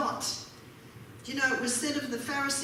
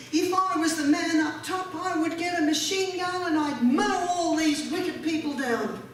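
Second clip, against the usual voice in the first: mock bluster; 4 semitones higher, 4 dB louder than usual. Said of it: "one man said".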